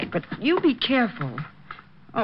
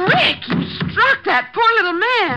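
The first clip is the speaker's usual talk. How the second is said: shocked dismay; 12 semitones higher than usual. Acted. Helen shocked at the blow.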